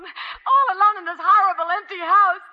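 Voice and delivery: crying, pleading voice; tearful plea. Acted. Alone wife pleading with the hospital, tearful. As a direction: let the tears come through.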